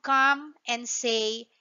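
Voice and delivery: slow, drawn-out Australian "good day" said as "G'day"; Australian slang. Shown as a demonstration. Teacher modelling the tourism tagline for class, slow Australian accent. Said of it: "That's how you pronounce that".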